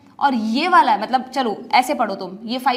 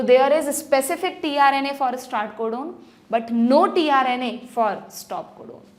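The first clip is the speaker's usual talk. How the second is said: slow, clear dictation for notes; dictation pace; much slower than usual. Shown as a demonstration. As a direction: spell it out slowly for writing down. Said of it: "लिख लो ये बात".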